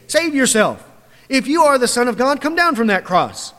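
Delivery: jeering taunt. Retold or imitated. Passersby deriding Jesus on the cross, jeering. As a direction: throw the challenge up at the cross. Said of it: "wagging their heads and saying".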